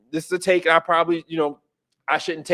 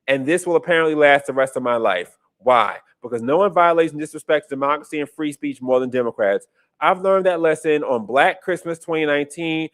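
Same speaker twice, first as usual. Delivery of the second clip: measured read-aloud of a social media post; 4 semitones lower than usual. Acted. Host reading the nephew's post to listeners, evenly read aloud. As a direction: read it out evenly, like a written statement.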